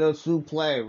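suplex said soo-PLAY, French style, no final ks; mock-French suplex. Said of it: "Remember, folks".

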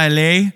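L A blended into one word; verschliffenes L A. Retold or imitated. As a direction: say L A run together like "alley". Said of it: "die hat wieder gesagt so". (L A zusammengezogen wie „A-L-E-Y“)

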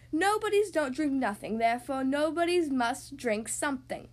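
emphatic, punched declaration; acted shout. Wizard reasoning with Mister Nobody, declaring it loudly. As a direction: proclaim it forcefully, hitting key words. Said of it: "shouted the wizard at the top of his voice".

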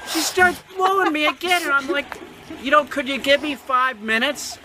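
high, half-sobbing with a laugh; mock breakdown, cracking up; hammed-up sobbing; laugh-crying.

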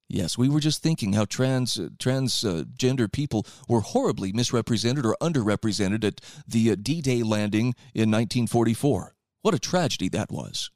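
dry mock-serious sarcasm; deadpan sarcastic aside. Real, not acted. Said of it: "Just feeling a little sarcastic here".

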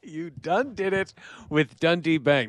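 a faint hint of the drawl; plain repeat of the catchphrase. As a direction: say it back almost flat. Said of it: "as I say it out loud".

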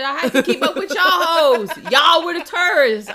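high, loud scolding; indignant tirade. Acted. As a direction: shout them down, high and heated. Mock tirade at tourist friends.

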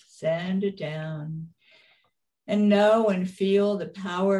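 slow, calm meditation guide voice; guided meditation. Acted. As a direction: lead them gently into relaxation. Penny leads the guided meditation.

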